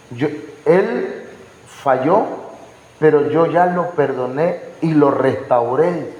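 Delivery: slow, measured divine pronouncement; voice of the Lord. Retold or imitated. The Lord telling the husband he restored the pastor, slow and solemn. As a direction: lay each word down slowly, like God forgiving.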